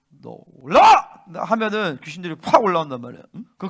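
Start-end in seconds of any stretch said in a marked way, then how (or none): 0.1-1.2 drawn-out command bursting high and loud; acted exorcism command. Shown as a demonstration. Preacher re-enacts casting out demons, commanding shout. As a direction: order it up with a sudden shout.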